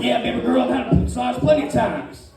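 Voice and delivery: lightly put-on spa voice. Client answering the massage lady, in his spa voice. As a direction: slip into a smooth-talking spa voice. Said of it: "That's my spa voice".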